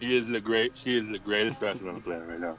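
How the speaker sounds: lightly voiced old wrestler promo; hint of Ric Flair bragging; Ric Flair impression. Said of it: "a Ric Flair impression".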